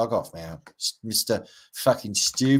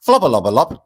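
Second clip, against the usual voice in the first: mock Flowerpot Men gibberish; 5 semitones higher, 12 dB louder than usual. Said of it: "impersonating Bill and Ben".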